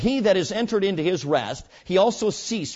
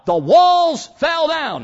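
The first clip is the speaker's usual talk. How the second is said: triumphant climax; 9 semitones higher, 7 dB louder, much slower than usual. Real, not acted. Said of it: "climax of the story".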